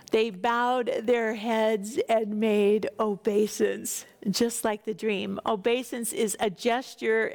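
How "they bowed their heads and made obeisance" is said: slow, deliberate reread of the line; slow repeat. Shown as a demonstration. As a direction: linger on each word of the phrase. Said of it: "And they bowed their heads and made obeisance".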